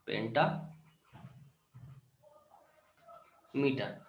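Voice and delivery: पेंटामीटर drawn out very slowly, syllable by syllable; slow careful correction. Shown as a demonstration. Teacher correcting himself to the class, very slow and deliberate. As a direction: spell out पेंटामीटर slowly as if writing it on the board. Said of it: "sorry".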